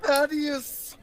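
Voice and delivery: high, sharp name correction; indignant shout. Acted. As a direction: call out your own name indignantly. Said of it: "My name is".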